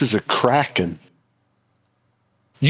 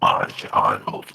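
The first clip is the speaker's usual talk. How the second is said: much lower, softer ancient creature; deep bellowing voice; 4 dB quieter than usual. Acted. Kraken greets the player as its child, low. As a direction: breathe it low like a god of the deep. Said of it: "a bellowing voice say".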